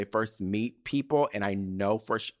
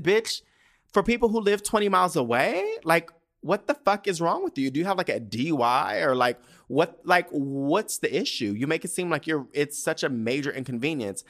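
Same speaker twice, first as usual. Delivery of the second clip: retold exasperated scolding, pitched up at first; berating; 4 semitones higher than usual. Woman replays telling off her date over twenty miles, exasperated berating. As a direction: lay into him in disbelief. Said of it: "I'm fucking berating the man".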